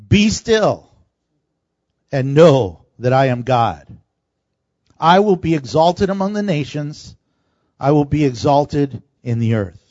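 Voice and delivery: slow, deliberate scripture reading with long pauses. Shown as a demonstration. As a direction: read it slowly, phrase by phrase, letting each one land. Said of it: "let me read it slowly to you".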